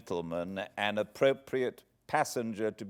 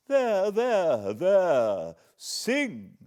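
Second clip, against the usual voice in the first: higher, loud and clipped urging; impatient command; 9 semitones higher, 6 dB louder, much slower than usual. A narrator's reading. Miss Havisham impatiently ordering Pip to sing, higher. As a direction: snap it out impatiently. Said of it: "with the impatient movement of her fingers".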